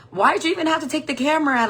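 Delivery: fast, high, loud protest; acted indignation. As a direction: demand an answer, exasperated. Acted quarrel with her ex.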